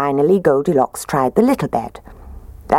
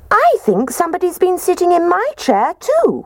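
much higher squeak, tiny cub; squeaky baby bear. Acted. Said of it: "And Baby Bear squeaked".

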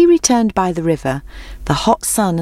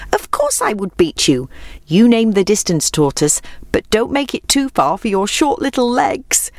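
mocking hare; 4 semitones higher than usual. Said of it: "fell on the ground laughing".

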